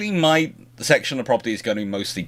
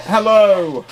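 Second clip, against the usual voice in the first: high sing-song hello to the dog; pet greeting; 9 semitones higher, 6 dB louder than usual. Real, not acted. Owner greeting his poodle, high sweet hello. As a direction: coo it up like greeting a puppy.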